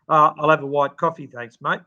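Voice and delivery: put-on casual, matey Australian accent; Aussie accent. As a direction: order casually in a broad-ish Aussie accent. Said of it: "in my true Aussie accent".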